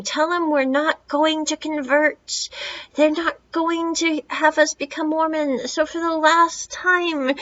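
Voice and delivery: a lightly hammed-up father telling the Mormons off; mild mock yell. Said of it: "the dad just starts yelling this out the door".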